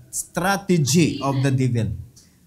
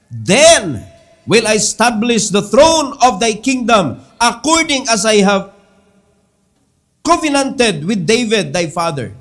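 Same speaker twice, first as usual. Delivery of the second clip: slow, weighty King James reading; scripture reading; 3 dB louder, slower than usual. Acted. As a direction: read the verses like a solemn proclamation. Reads the Bible passage aloud. (hinay ug solemne nga pagbasa sa Bibliya)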